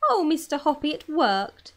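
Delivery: high, loud joyful cry; overjoyed cry to her neighbour. Acted. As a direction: exclaim in delighted disbelief. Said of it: "she was crying".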